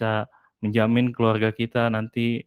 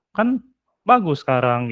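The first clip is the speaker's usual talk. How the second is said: husband's defensive retort; 2 semitones higher, 4 dB louder than usual. Acted. Husband defends buying clothes.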